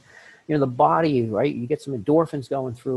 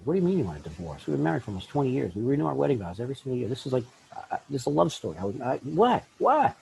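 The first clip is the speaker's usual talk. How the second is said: stunned disbelief; faster than usual. Retold or imitated. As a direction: play the shocked spouse who can't believe it. Spouse hearing about divorce.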